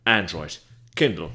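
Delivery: booming ad-read announcer. Shown as a demonstration. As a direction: sell it like a radio announcer. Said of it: "There's my announcer voice".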